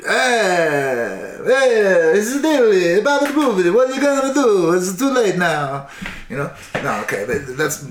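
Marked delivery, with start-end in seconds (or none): 0.0-5.9 much higher and louder, taunting sing-song; mocking pregnant women. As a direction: taunt the men in a high shrill mock voice, slowing at the end. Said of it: "And they're like".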